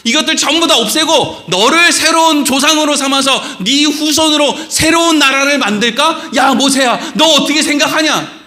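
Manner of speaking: a touch of an irate God; God's voice. Retold or imitated. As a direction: play God venting to Moses. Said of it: "하나님은 지금 모세한테".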